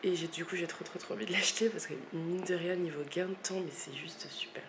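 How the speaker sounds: croaky morning vocal fry; just woke up, gravelly fry. Real, not acted. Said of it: "c'est ma voix du matin".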